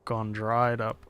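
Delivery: put-on half-hearted dealer accent; a hint of a shopkeeper accent; odd NPC accent. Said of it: "What is this accent".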